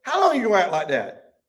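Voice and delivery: high, loud folksy rebuke; blunt scolding friend. Acted. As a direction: talk down to Job like an ignorant boy. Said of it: "let me put it like this".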